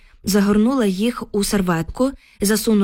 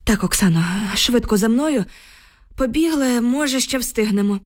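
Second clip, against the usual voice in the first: urgent urging; 3 semitones higher than usual. Acted. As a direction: urge a friend to run while there's time. Urging a friend to run along. (квапливий заклик трохи вищим голосом)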